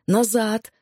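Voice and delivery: a yell held back, not full out; mild acted yell. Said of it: "заорал он, что было мочи".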